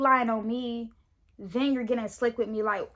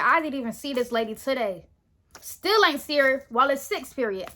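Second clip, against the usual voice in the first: worked up, indignant retort; not chill; 4 dB louder than usual. Retold or imitated. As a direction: retell an incredulous protest with raised energy. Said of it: "I wasn't chill at this part".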